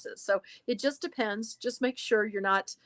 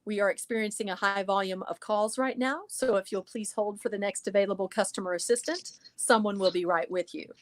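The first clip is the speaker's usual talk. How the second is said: natural money voice; 2 semitones lower than usual. Shown as a demonstration. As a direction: read it like a polished hold message. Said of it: "So that's my money voice".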